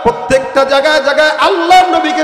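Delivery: loud, rousing sermon delivery; full-force preaching. Real, not acted. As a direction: preach it out, stretching the line endings. (জোরালো ওয়াজের সুরে)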